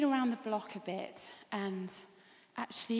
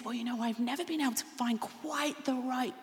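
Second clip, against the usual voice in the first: excited woman; 3 semitones higher, 5 dB louder than usual. Acted. Woman lists partner wishes.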